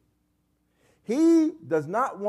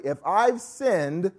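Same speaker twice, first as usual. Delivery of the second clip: sarcastic challenge, higher and drawn out at first; Job; 4 semitones higher, slower than usual. Acted. Job asking God directly what he has done, sarcastic. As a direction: ask it pointedly, with mild sarcasm. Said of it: "He are sarcastically asked".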